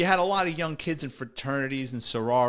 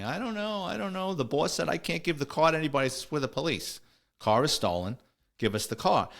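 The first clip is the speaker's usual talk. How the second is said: a higher, flustered attendant voice, then settling back; imitating the attendant; 4 semitones higher than usual. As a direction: lightly play the nervous parking attendant, higher pitch. Parking attendant quoted in story.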